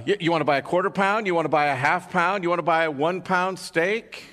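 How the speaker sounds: quick, upbeat sales questions; fast butcher pitch. Retold or imitated. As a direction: rattle off the options to the dog. Butcher asks dog quickly.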